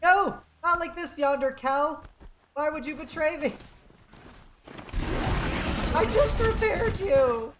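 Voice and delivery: squeaky, high hammy wail of betrayal; rubbery high squeaky toy. Acted. Cow betrays him.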